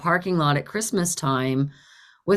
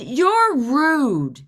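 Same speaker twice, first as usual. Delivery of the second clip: high, emphatic rebuke; indignant scolding; 6 semitones higher, 4 dB louder than usual. Retold or imitated. Ignored driver telling off the woman, indignant. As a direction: scold her, stretching the words.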